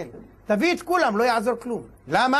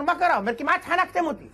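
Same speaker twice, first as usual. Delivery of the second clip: raised, shaken protest; high indignant complaint; 7 semitones higher than usual. Acted. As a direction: complain with a choked outrage. Hanged man complains after release. (תלונה נרגשת בקול גבוה)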